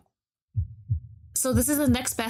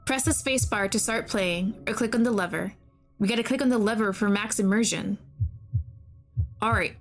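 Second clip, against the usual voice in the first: calm game narration read aloud; story narration. Acted.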